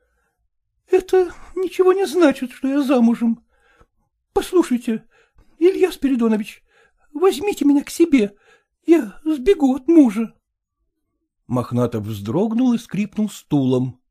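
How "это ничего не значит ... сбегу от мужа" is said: resolute. Acted. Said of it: "решительно произнесла".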